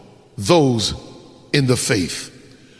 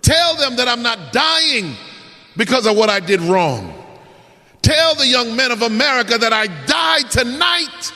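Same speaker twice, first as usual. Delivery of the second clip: speaking out loud; 4 semitones higher than usual. Acted. Condemned man addressing the press cameras, raised proclamation. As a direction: declare it to the cameras for all to hear. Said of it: "begins to speak loud and says".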